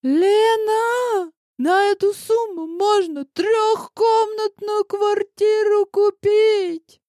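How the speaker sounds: high, loud shrill protest; кричит в трубку; shouting. A narrator's reading. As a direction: yell it down the phone. Rival shouting on phone.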